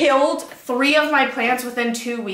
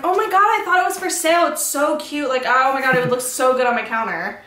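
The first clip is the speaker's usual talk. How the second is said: gushing; 3 semitones higher than usual. Retold or imitated. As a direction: whine like a kid begging for it. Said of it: "I was like".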